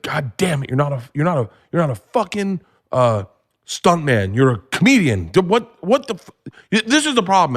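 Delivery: mock dad yelling, rising to a high squeak; retold angry yell. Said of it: "And he yelled at me".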